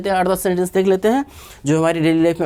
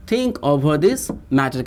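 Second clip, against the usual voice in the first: slow whole phrase; 3 semitones lower, much slower than usual. Shown as a demonstration. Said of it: "इस बात के ऊपर सोचो".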